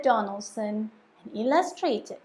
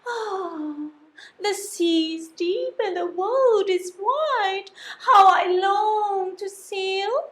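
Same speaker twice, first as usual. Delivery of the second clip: a touch of wistful sighing; lightly voiced yearning snail; 6 semitones higher than usual. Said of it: "she sniffed and she sighed".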